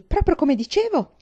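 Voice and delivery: loud, high, slowed triumph; ecstatic shout. A narrator's reading. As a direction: hammer home that she was right. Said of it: "gridò Mary in estasi". (grido estatico e trionfante)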